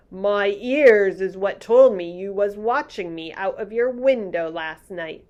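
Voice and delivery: gentle giant marvelling; lightly voiced friendly giant. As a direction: read the giant's lines a touch bigger. BFG giant voice.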